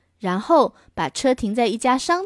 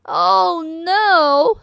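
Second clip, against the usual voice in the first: higher, acted alarm; a dad hearing his kid is flying away; higher acted dismay; mock dismayed father; 7 semitones higher, 5 dB louder than usual. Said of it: "said her father".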